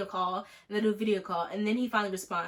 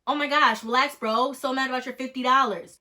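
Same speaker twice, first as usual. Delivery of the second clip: mock rant; 3 semitones higher, 5 dB louder than usual. Venting about the hacker's fifty dollars, loud rant. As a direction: vent at him, half laughing.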